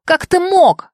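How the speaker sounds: high, tearful gasp; breathless tearful cry. A narrator's reading. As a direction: breathe it out through tears. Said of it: "выдохнула я".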